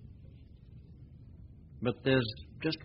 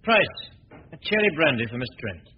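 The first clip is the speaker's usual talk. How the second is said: raised voice calling the butler; a lordly call for service; 4 semitones higher, 5 dB louder than usual. Acted. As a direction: summon the servant across the room.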